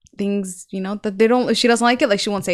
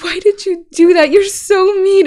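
higher, mildly whiny scolding; imitated upset little sister; 7 semitones higher than usual. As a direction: imitate a child's reproach, lightly voiced. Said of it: "she's like".

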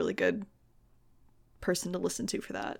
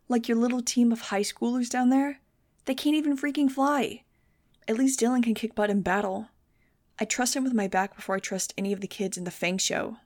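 furious; 3 semitones higher than usual. Acted. Max furious at Fang.

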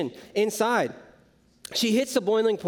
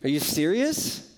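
a low, slow, exasperated grumble; annoyed muttering; 9 semitones lower, slower than usual. Retold or imitated. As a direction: mutter it like a fed-up sister watching someone idle. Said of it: "And each time she's like".

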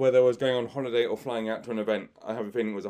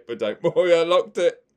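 laughing; 6 semitones higher, 9 dB louder than usual. Real, not acted. Laughs delivering the punchline.

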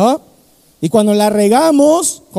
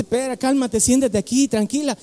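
calming voice; 5 dB quieter than usual. Retold or imitated. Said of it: "Y el pastor le dice".

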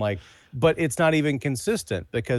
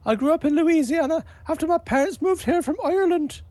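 much higher, half-hearted put-on Southern voice; unconvincing mock accent; 4 dB louder than usual. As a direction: deliver the missing line in a badly faked accent. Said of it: "it would probably sound about that convincing".

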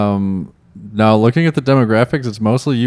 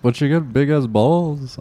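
put-on Liverpool accent; 3 semitones higher, 4 dB quieter, slower than usual. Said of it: "That's like the Beatles almost".

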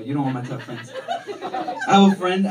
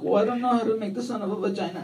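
put-on quick Mexican-accented reply; wife's Mexican accent; 3 dB quieter, faster than usual. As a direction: imitate a Mexican wife explaining herself. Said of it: "she has an accent".

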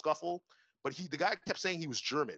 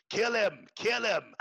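mock crowd yell, higher and louder; imitated egging on; 6 semitones higher, 6 dB louder, much slower than usual. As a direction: egg on a fight like a rowdy bystander. Imitating taxi drivers egging on fighters.

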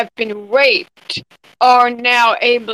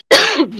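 choking cough; 5 semitones higher, 4 dB louder than usual. Real, not acted. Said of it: "My tea went down the wrong hole".

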